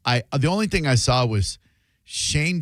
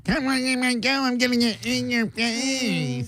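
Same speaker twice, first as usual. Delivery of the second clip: over-the-top morning radio host, much higher; hyped radio DJ; 12 semitones higher than usual. Retold or imitated. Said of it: "It used to be".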